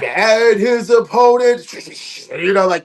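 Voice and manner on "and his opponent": loud, slow, high announcer's roar; hoarse main-event announcing; ring announcer. Retold or imitated. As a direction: belt out a big drawn-out introduction. Re-enacts his strained ring introduction.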